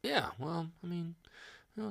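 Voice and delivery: a quick put-on Cockney; Cockney accent. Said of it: "is it Cockney?".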